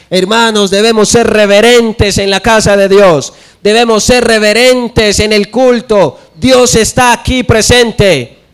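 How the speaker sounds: a hint of a solemn preacher, slowing down; preaching brother. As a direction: mimic the brother who preaches reverence. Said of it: "se para aquí el hermano". (un leve remedo del hermano que predica, solemne y más lento)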